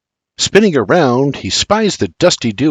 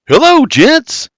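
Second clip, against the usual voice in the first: high, slow called-out hello; shouting greeting; 13 semitones higher, 5 dB louder, slower than usual. A narrator's reading. William calling to the men at the river, a slow high shout. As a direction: hail them from across the river.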